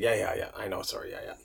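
soft, trailing mock apology; muttered brush-off. Firefighter brushing off the chief's reminder, muttered mock apology. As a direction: mumble it away, dropping to almost nothing.

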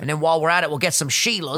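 put-on amateur Australian accent. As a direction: put on a casual Aussie accent. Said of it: "I try an Australian accent".

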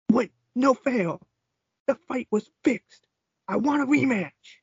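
high whining complaint; whiny high voice. Retold or imitated. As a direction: whine like a sore loser. Whining loser wrestler quote.

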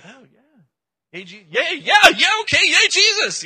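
loud, high hammed-up cheering; excited mock cheers, building to a yell; cheering crowd. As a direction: whoop it up like an eager crowd. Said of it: "people run out and they're like".

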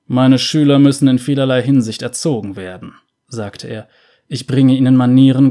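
a strict cleric lecturing with pride; lightly voiced harsh cleric; stern cleric.

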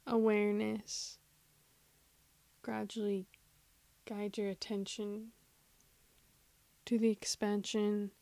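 measured meditation voice, long silences between phrases; guided meditation. Acted. Host guiding listeners to follow the breath, guided meditation. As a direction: lead them patiently through body and breath.

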